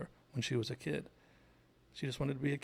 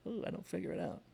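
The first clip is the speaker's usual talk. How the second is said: high, put-on ditzy voice; hammed-up airhead act, higher than usual; goofy dumb blonde; 5 semitones higher than usual. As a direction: play the silly helpless blonde, pitched up. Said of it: "Deborah makes a, like, a goofy face".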